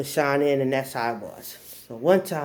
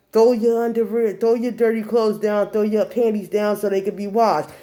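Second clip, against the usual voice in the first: louder, higher mom holler; imitated yelling; 7 semitones higher, 5 dB louder than usual. Mom orders underwear thrown down for washing, yelling. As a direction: belt it out like an embarrassing mother. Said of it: "She literally yelled".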